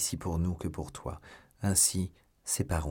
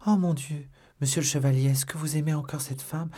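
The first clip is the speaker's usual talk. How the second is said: alarmed exclamation; 5 semitones higher, 3 dB louder than usual. A narrator's reading. Jealous maid alarmed about other woman.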